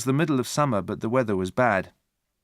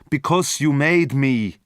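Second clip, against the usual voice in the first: slow, louder monster voice; monster repeating; 4 semitones higher, 5 dB louder, slower than usual. A narrator's reading. Monster repeating to Victor, slow and heavy. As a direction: press each word heavily. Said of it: "the monster repeated".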